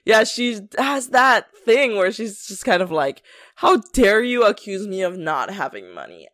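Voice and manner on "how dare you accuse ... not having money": mildly indignant imitation of a scammer; mock offended. Scammer refusing to pay a hotel bill, mock offended. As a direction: act affronted, dropping low at the end. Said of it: "she gets offended".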